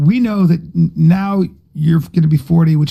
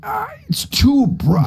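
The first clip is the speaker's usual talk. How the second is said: higher, slow whimper; host mocking a whiny complaint; 7 semitones higher, slower than usual. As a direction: whine like a pained diva. Mock whine.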